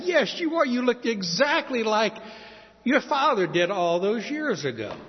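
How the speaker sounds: high, emphatic "yes you are"; playful insistence; insistent retort. Retold or imitated. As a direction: insist over his denial. Insisting to Ian he resembles father.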